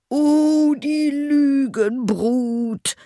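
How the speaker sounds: very high, loud, drawn-out outrage; furious cry. A narrator's reading. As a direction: howl it slowly in fury. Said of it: "rief der Schneider". (wütender Aufschrei)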